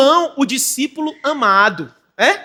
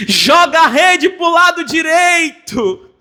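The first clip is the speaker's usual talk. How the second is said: impassioned repeat; 3 semitones higher, 4 dB louder, slower than usual. Acted. Preacher repeats Jesus' call.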